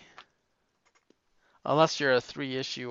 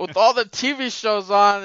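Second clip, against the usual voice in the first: loud, higher-pitched boomer whine; boomer impression; 5 semitones higher, 9 dB louder than usual. Co-host making excuses about TV shows, loud boomer impression. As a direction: pile up the excuses as a hammed-up boomer. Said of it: "I was doing my Bomer impression".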